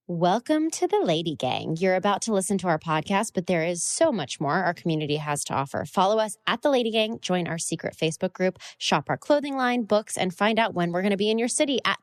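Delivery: promo read. Acted. Host welcoming listeners to the podcast, announcer promo voice. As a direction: pitch the community like a radio spot.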